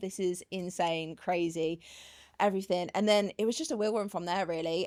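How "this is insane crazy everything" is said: normal talking voice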